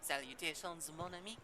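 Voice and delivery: a light put-on French accent, greeting a guard; mock French charm on the greeting. Streamer greets the city guard in French accent. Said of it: "slip into a French accent".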